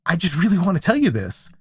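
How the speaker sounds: earnest plea with swooping emphasis; gently acted kid bursting to tell mom; pleading inner kid. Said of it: "the kid in me was just saying".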